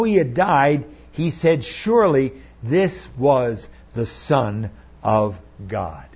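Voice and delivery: measured, emphatic Bible reading with weighty pauses; scripture reading. A narrator's reading. Pastor reads the crucifixion account to his congregation, solemn scripture reading. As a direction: read it out solemnly, lifting the quoted words.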